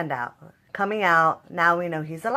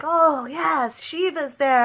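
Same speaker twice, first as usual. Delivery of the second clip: excited relief; 8 semitones higher, slower than usual. Retold or imitated. Fan cheering as Shiva arrives, excited and high. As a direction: cheer like the hero is saved. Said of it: "I was like".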